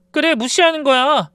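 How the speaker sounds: wife throwing his words back at him; defiant echo. Retold or imitated.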